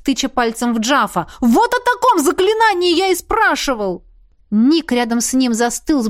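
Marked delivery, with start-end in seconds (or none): 1.4-4.0 high, loud and thrilled; jubilant. A narrator's reading. Ert thrilled at the spell he asked about, high. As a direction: exult like a boy shown a marvel. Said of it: "возликовал Эрт".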